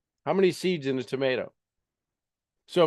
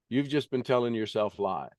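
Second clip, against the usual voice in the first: usual speaking voice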